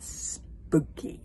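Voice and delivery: slow, drawn-out eerie word; spooky narration. A narrator's reading. Storyteller describing the witch's tiny hut, spooky. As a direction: stretch it out eerily.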